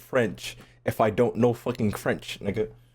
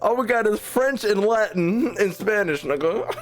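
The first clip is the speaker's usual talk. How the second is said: high-pitched rant broken by laughter; laughing rant; 11 semitones higher than usual. Real, not acted. Streamer ranting to chat about school languages while laughing. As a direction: rant through giggles, voice pitched up.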